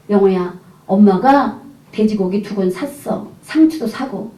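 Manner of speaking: put-on slow, gentle explanation to a child; soothing mother. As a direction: retell a mother coaxing her child. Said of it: "꼭 껴안고 그랬어요". (아이를 달래듯 천천히)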